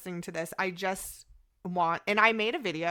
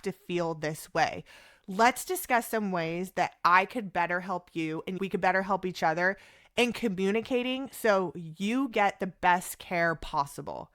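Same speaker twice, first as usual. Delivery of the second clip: compassionate apology. Shown as a demonstration. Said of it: "Do you see how I just talked".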